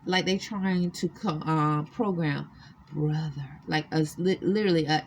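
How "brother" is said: put-on African female accent. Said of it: "African Negro female accent".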